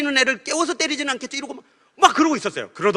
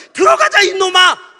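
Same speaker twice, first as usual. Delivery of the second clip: loud, higher, slow fond call; loving God; 10 semitones higher, 11 dB louder, slower than usual. Acted. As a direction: bellow it with rough affection, pulling him home. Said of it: "그러는 분이". (크게 다정하게 부르는 하나님 목소리로)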